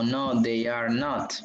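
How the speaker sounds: "No, they are not" said slowly, every word apart; slow full form. Shown as a demonstration. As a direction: spell out "are not" slowly and clearly, no contraction.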